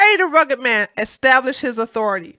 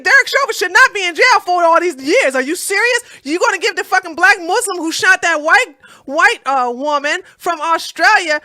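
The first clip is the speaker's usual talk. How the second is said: heated rant; 5 semitones higher than usual. Real, not acted.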